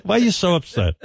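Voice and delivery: high mock placating dad; put-on, high-pitched soothing; imitating the dad. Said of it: "And then he goes".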